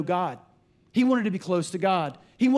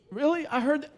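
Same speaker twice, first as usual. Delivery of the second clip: mock surprise; 6 semitones higher than usual. Imitating surprised caller.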